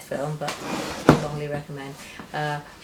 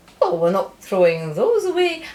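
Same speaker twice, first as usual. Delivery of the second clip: loud, sing-song, terrible put-on Scottish accent; 4 semitones higher, 6 dB louder than usual. Telling how the Scots in Dundee reacted to the shipped oranges, terrible Scottish accent. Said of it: "my terrible Scottish accent".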